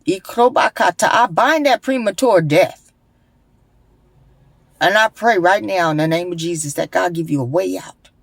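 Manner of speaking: praying in tongues over a listener; fervent prayer. Real, not acted. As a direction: call on God for her escape.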